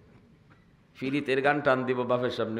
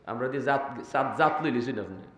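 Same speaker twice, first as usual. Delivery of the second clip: lightly voiced tea seller; 5 semitones lower, 5 dB quieter than usual. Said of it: "কই".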